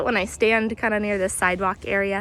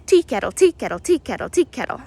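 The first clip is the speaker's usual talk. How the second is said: "tea kettle" sung out in three even syllables, a little louder; slow wren song imitation; 3 semitones higher, 4 dB louder than usual. Shown as a demonstration. Walking guide demonstrates the Carolina wren's tea-kettle call, slow and spaced. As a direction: naturalist slowly mimics the wren's song for viewers, loud chirpy imitation. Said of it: "much faster than I was just able to do it".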